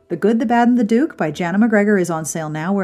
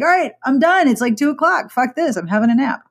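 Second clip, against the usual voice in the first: fed-up quitting; 5 semitones higher than usual. Retold or imitated. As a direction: throw in the towel and head for a nap. Acted quote of herself giving up.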